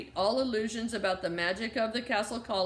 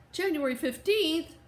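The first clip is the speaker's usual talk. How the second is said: higher-pitched disbelieving exclamation; exclaiming; 6 semitones higher than usual. A narrator's reading. Jessie learns of the long closure, exclaiming. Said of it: "Jessie exclaimed".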